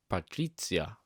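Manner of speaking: second go at an Italian pronunciation; softly attempted Italian accent, a bit of flair. Shown as a demonstration. Reviewer retrying the character's name, light Italian accent. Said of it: "a bit of Italian accent on there".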